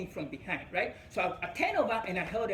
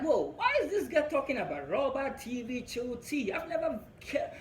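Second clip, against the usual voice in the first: laughing disbelief; 5 semitones higher than usual. Retold or imitated. Confused at her invitation.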